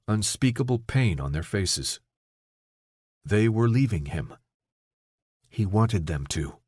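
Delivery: usual speaking voice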